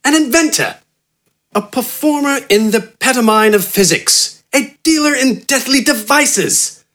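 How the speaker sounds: high, grandiose gentleman-scientist voice; eccentric doctor Wither. A narrator's reading. Wither proclaiming his credentials to Gafgarn, high and grandiose. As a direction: proclaim your titles like a pompous inventor.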